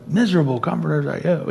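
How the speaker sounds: fast, exasperated outburst; worked up. Retold or imitated. Job snapping at his friends, a mildly worked-up fast retort. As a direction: rush it like a man at the end of his rope. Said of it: "he's so worked up right now that he's like".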